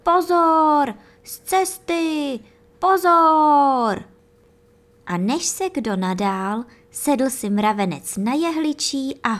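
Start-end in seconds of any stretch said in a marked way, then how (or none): 0.0-4.0 high, loud ant yelling warnings, slow on z cesty; calling at full voice. Acted. Ant sledding down the anthill yelling for everyone to move, high and loud. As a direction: clear the way with a big shout. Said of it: "A volal na celé kolo".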